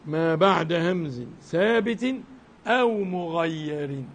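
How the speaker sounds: slow chanted reading of a teaching poem; measured, slow poem chanting; verse recitation. Acted. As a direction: draw each word out like a recited ode.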